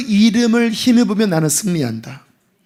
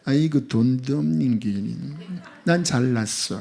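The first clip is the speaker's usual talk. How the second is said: smug inner voice; 8 semitones lower, 9 dB quieter than usual. Pretend. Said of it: "속에 어떤 마음이 들어요?".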